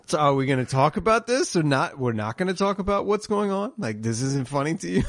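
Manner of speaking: lightly hammed-up disbelief, rising in the middle; mock incredulous questioning. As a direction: act out a baffled, half-joking challenge. Acting out awkward patient questioning doctor.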